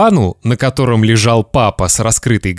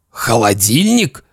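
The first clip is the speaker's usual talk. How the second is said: disbelieving echo in an adult voice; stunned father. Acted. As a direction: repeat it as a dazed dad. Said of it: "Папа как-то странно задрожал".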